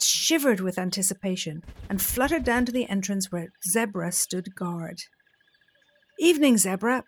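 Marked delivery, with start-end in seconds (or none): 6.2-7.0 bright squeaky little bat greeting. Acted. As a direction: squeak it out high and light. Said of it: "Bat squeaked".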